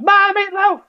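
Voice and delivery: high, loud mock shout of the line; shouted quote. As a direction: yell it like calling mom to dinner. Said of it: "I'll just shout it".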